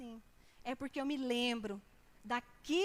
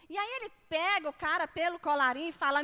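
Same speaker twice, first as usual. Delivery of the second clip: forceful; 6 dB louder, faster than usual. Acted. Preacher builds to the seizing.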